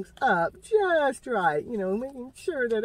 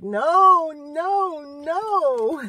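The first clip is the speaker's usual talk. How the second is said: loud, high no no no; firm refusal; 7 semitones higher, 9 dB louder, much slower than usual. Retold or imitated. Divine Feminine refusing the trickster, loud firm no. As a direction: shut him down hard. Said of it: "got her ears closed".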